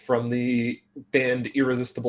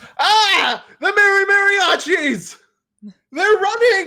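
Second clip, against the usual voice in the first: very high, loud shout; 7 dB louder than usual. A patron at the Battle of the Bands runs in, as a shouting patron. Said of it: "who runs in and shouts".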